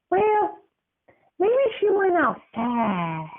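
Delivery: put-on high crying kid voice, slow; a child fighting back tears; high, breaking childlike plea; tearful little boy.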